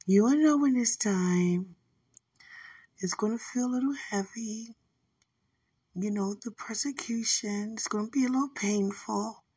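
lightly voiced serene angel, "know" stretched; calm, measured angelic tone; angel's way of talking. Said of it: "this how they talk".

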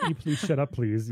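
mock-polite plea, starting high; polite request. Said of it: "the most polite".

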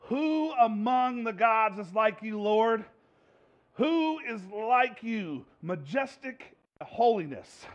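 slow, reverent reading; slow scripture reading. Acted. Preacher reading Exodus to congregation, slow reverent. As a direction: read it slowly with awe.

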